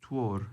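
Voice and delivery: "Twor" said with an initial t, not d; D pronounced t. Shown as a demonstration. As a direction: teach "Twor" starting on a t sound. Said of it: "spelled with a D".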